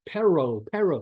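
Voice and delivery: Spanish "perro" with an English accent. Shown as a demonstration. Learner sounding out a Spanish word, English accent. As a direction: say "perro" with an English r and gliding final o. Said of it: "you say it with an English accent".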